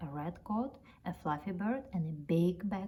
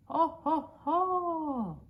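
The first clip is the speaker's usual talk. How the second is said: much higher, louder ho ho ho; jolly laugh; 10 semitones higher, 5 dB louder, much slower than usual. Acted. Relieved man bursting into a much higher, louder ho ho ho. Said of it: "he burst out laughing".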